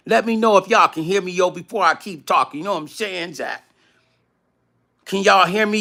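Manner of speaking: a hint of a streetwise New York hype man; New York yo boy. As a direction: hype New York homeboy bit, lightly done. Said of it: "I gotta do my yo boy thing".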